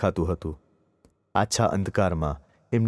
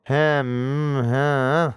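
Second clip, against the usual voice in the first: mock gummy chuckle, higher; aunt's toothless laugh; 4 semitones higher, much slower than usual. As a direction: recall her smug little laugh. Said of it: "હસતો ચહેરો".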